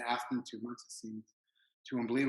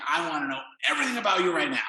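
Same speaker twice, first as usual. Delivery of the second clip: put-on French-Korean accent; 6 semitones higher, 10 dB louder, faster than usual. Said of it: "almost Korean accent".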